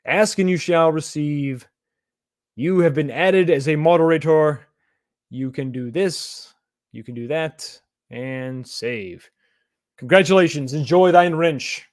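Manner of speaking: slow, solemn pronouncement with a grin; mock Bible speak. Streamer dubs a viewer moderator in grand mock Bible speak. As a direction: bestow the wrench like a royal blessing. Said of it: "I'm using Bible speak".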